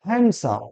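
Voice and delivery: হ্যান্ডসাম with silent d, "han-sam"; corrected handsome. Shown as a demonstration. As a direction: say হ্যান্ডসাম as "HAN-sum", dropping the d. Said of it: "কি বলবো?". (হ্যান্ডসাম-এর সঠিক উচ্চারণ, ড নীরব)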